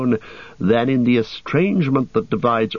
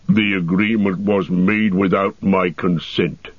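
a lightly voiced, slow, stubborn dwarf; dwarf Gimli. Dwarf refusing the elves' blindfold, indignant dwarf voice. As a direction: protest like a proud dwarf with a touch of indignation.

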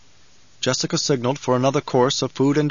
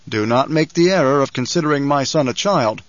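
a hint of a firm Duke, louder; lightly voiced Duke, firm and louder; Duke's voice; 4 dB louder than usual. Duke warns the banker.

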